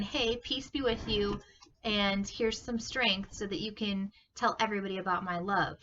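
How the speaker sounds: mildly excited disciples. Retold or imitated. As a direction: tell it like big news. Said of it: "they're so excited".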